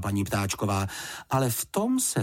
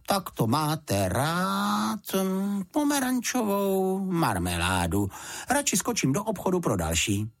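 slow, much higher flustered housekeeper; startled motherly housekeeper; blurted in alarm; 10 semitones higher than usual. A narrator's reading. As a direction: gasp it out, startled and high.

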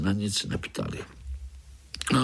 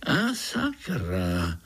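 startled curse; much slower than usual. Acted. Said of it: "lekl se strýček".

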